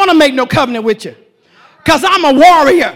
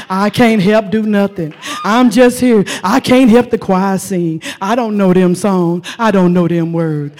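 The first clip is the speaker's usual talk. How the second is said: wimpy Christian; 8 semitones lower than usual. Retold or imitated. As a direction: whimper out every excuse. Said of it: "Or are you the wimpy Christian?".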